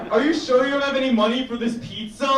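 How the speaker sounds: high, loud stilted acting line; hammed-up porn line. The pizza guy asking the customer about payment, hammed up. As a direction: deliver it like a cheesy film actor. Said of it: "Or, like".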